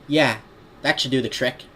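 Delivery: lightly put-on Brooklyn-style accent; cartoon city accent, matter-of-fact; Joey Wheeler. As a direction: instruct in a cartoon New York accent. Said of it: "just going with the Joey Wheeler voice".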